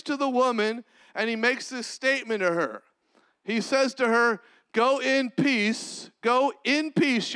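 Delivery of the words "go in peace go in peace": slow tender blessing. Acted. Jesus to woman, slow.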